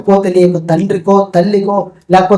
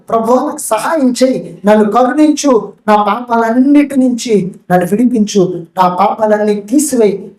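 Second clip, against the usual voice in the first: begging, weeping. Acted. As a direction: beg God with a touch of tears. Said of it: "దేవుని బ్రతిమలాడుతూ, ఏడుస్తూ". (తేలికపాటి ఏడుపుతో దేవుని బ్రతిమలాడుతూ)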